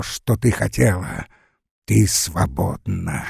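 low, slow menacing murmur; eerie whisper. Acted. Joseph stumbles through the dark hunting Lara, low and slow. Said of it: "шептал".

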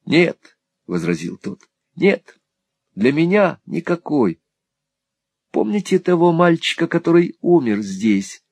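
high, sharp despairing no; a hopeless boy protesting; Smike's despair. A narrator's reading. Smike rejects hope. (Смайк в отчаянии, высоко и резко)

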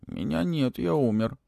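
a hint of a creature playing dead; little dragon. A narrator's reading. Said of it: "приоткрыл один глаз и ответил".

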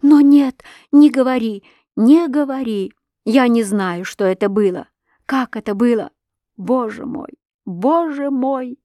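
high, agitated, starting loud; distraught pleading. A narrator's reading. Wife begs the girl not to speak, distraught pleading. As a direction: plead in rising distress, then ebb.

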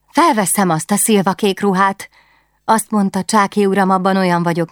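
put-on dreamy young queen longing for fun; wistful princess. Princess defiant then despairing.

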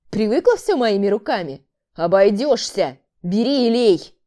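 scornful man. A narrator's reading. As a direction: sneer then order. Man mocks and orders. (презрительный отказ)

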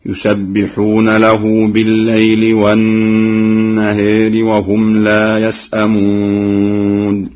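والنهار with alif tilted toward e, slow chant; Warsh taqlil. Shown as a demonstration. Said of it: "بتقليل الألفاظ التالية". (تقليل النهار)

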